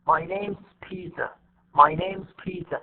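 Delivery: "name's" and "Peter" stressed, is shrunk to an s; slow NAME'S PETER with no stress on is. Shown as a demonstration. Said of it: "You see, this is not stress".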